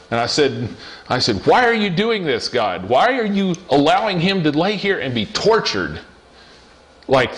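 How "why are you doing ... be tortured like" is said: pitched-up plea, a mild retold shout; retold anguished cry to God; angry yell at God. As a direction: cry out at the sky, half reliving it. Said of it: "yelling at the top of my lungs".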